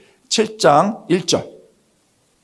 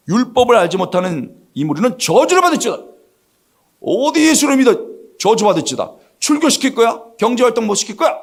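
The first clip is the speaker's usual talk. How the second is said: high-pitched, indignant intimidation; mock-angry authority laying down threats; acted threatening rebuke; 6 semitones higher than usual. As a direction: warn the underlings off as an outraged leader. Leaders threaten guards, acted.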